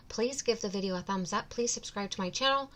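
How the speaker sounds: something stuck in mouth; mouth full. Real, not acted. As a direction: talk around something in the mouth. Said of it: "sorry, I have something in my mouth".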